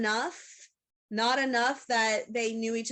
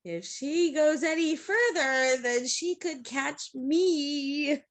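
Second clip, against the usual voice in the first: hidden panic; 3 semitones higher, slower than usual. Acted. Speaking for a character who fears being caught, mock panic. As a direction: voice a character's secret panic, stretching the last words. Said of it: "desperately trying not to show it".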